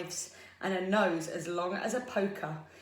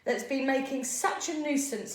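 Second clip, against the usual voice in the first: loud, higher-pitched big goat scolding; thundering; 6 semitones higher, 5 dB louder than usual. A narrator's reading. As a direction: thunder it at the little troll. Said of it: "he thundered".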